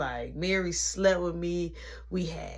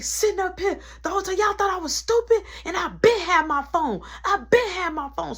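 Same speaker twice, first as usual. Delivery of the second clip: tone 1; 9 semitones higher, 3 dB louder than usual. Retold or imitated. Tracy reveals she knew.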